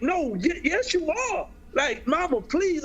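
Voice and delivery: high, urgent plea to mama; desperate begging. Retold or imitated. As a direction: beg her, voice climbing. Begging mom again.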